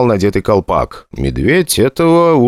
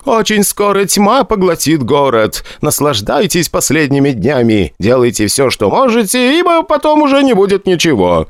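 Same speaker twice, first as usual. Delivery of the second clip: prophetic trance voice; 9 semitones higher than usual. A narrator's reading. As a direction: intone it like a stage seer. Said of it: "хорошо поставленный ... голос прорицательницы".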